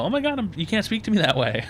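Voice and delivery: mock shock from an insulted server; a hint of an affronted waitress; offended waitress. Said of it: "she's gonna go".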